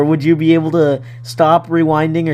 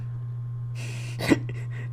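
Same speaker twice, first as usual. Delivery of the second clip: loud yawn; 14 dB quieter than usual. Real, not acted. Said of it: "are you crying?".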